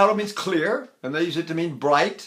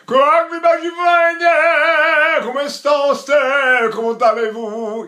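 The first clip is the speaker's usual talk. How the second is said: high, loud, slow greeting; projected languages demo; 10 semitones higher, 7 dB louder, slower than usual. Shown as a demonstration. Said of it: "you can do every language that way".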